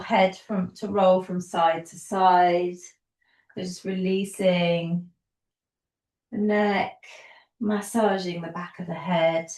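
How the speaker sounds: calm yoga teacher guiding, unhurried pauses; easy, soothing class-leading voice; guided yoga instruction. Real, not acted. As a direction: lead them gently through each movement, leaving space. Guides gentle movement with long pauses.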